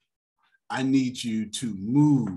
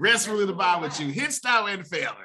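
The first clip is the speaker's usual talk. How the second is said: intoned, swelling louder and higher toward the end; church benediction; 4 semitones higher, 3 dB louder, faster than usual. Retold or imitated. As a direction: chant it like an old-time church benediction. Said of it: "this is your benediction".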